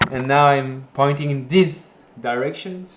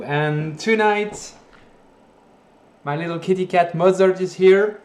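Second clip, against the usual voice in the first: cheap usb mic. Real, not acted. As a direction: voice through a bad mic. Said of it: "Sorry about the mic quality".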